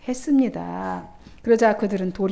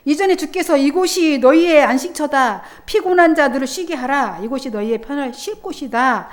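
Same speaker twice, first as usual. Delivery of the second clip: solemn proclamation; 3 semitones higher, 4 dB louder than usual. Acted. Voicing God's invitation.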